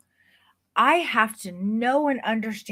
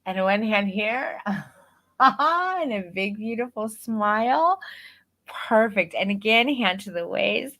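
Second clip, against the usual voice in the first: bright, bouncy photographer coaching a client through poses; upbeat coaching voice. Shown as a demonstration. Photographer coaching a boudoir client, upbeat and encouraging. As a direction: pump them up, keep it playful and energetic. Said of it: "my vocal intonation went from the way that I'm talking to you".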